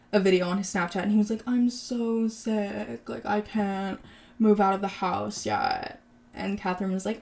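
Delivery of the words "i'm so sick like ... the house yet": slow, drawn-out mock complaint; mock sick whining. Retelling the ex-husband's excuse for not moving out, mock sick whining.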